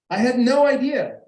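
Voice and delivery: a high, loud laugh through the words; laughing disbelief. Real, not acted. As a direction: laugh out the admission, amazed. Laughs at his own blindness.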